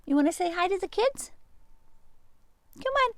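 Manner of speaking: high, loud coaxing call to the animals; sing-song call to bring the sheep out; bright high calling voice to animals. Real, not acted.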